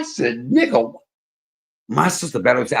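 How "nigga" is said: high, louder indignant snap; sudden mock-furious retort; retold angry outburst. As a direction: fire it back at him, offended. Retold angry outburst at old man.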